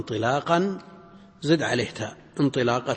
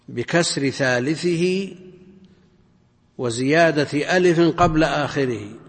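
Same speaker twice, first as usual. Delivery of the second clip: verse recitation; 5 dB louder than usual. Acted. Teacher reciting a grammar verse to students, measured recitation. Reads out verse lines to explain.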